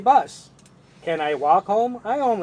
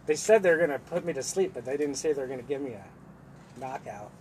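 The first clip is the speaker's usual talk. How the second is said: softening to a sly murmur on knockout; smooth pickup line; 6 semitones lower, 8 dB quieter than usual. Pretend. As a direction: deliver it like a cheesy pickup line. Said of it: "I'm gonna say this one".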